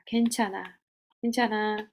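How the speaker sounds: pat yourself and say it kindly; soothing reassurance. Shown as a demonstration. Comforting herself while she pats her own chest, soothing. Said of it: "이렇게 다독여주는 거예요".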